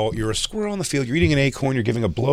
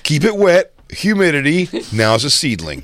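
influencer impression; 4 semitones higher than usual. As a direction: rattle off steps like a tutorial. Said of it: "He goes".

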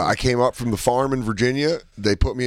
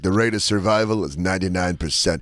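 action-movie general; 3 semitones lower than usual. Acted. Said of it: "Jacob's like the general in the action movie".

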